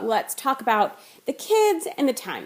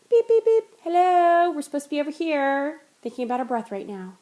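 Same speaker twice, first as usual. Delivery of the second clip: mock alarm voice; 4 semitones higher than usual. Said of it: "and you say".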